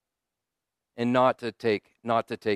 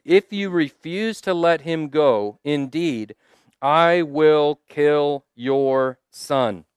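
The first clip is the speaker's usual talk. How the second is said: slow and loud, each word weighed; God's warning to Pharaoh, slow and loud; solemn divine threat; 2 semitones higher, 4 dB louder, slower than usual. Acted. God's threat quoted in sermon.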